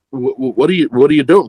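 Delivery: flustered stammer, pushing out the question; retold panic. Answering his boss's offer in a mild retold panic. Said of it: "'Cause I'm panicking now".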